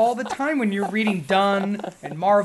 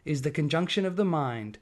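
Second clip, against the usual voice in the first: measured poetry recital; poem reading; slower than usual. Acted. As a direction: recite the verses slowly.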